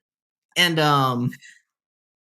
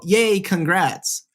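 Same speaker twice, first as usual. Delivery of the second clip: higher, drawn-out retold congratulations; mock cheer; 6 semitones higher, much slower than usual. Retelling her friend's written congrats, mock cheer. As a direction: imitate a friend cheering, stretching it out slowly.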